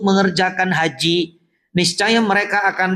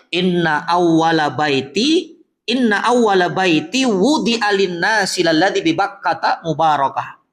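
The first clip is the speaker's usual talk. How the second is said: Quran recitation. Acted.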